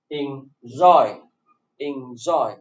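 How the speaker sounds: "enjoy" with the weight on "joy"; light "en", strong falling "joy" in "enjoy"; second-syllable stress. Shown as a demonstration. Teacher demonstrating to students, "enjoy" stressed on its second syllable. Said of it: "The stress is on the second syllable".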